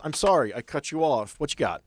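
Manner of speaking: ordinary talk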